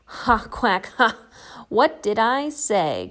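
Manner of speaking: gloating. Acted. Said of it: "cried the duck".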